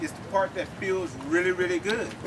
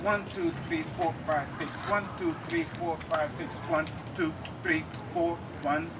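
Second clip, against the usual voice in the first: steady rhythmic count, "One" restarting each cycle; counting in six-eight. Shown as a demonstration. Teacher counting the bell phrase in six eight, steady rhythmic count. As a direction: count "One, two, three, four, five, six" evenly on the beat. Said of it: "You can count that in a six eight".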